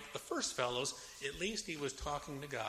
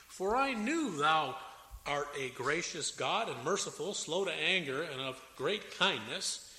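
slow, fervent reading of Jonah's prayer; solemn scripture reading; slower than usual. Acted. Preacher reading Jonah's prayer aloud, fervent. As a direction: read the prayer with weight.

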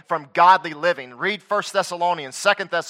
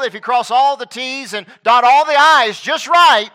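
higher-pitched, insistent listing that builds louder; mimicked list of demands; 4 semitones higher, 3 dB louder than usual. Preacher mimics false teachers' list of rules, insistent and building. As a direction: pile up each demand, building to a louder peak.

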